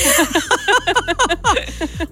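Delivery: long, high real laughter. Real, not acted. Recalling the doctor was her old teammate, real laughter. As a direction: laugh freely at the memory. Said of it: "dann hab ich so lachen müssen".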